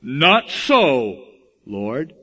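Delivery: a mild, bendable Peter refusing; meek Peter. Acted. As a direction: Peter to God, lightly meek. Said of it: "in that real bendable, meek way".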